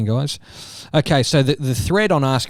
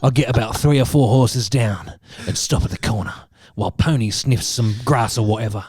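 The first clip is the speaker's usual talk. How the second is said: lowered, mock-grave horror storyteller; Garth Marenghi. Host reading friend a spooky story, lightly voiced Garth Marenghi. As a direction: narrate like a self-serious horror author, lightly. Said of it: "doing it in Garth Marenghi's voice".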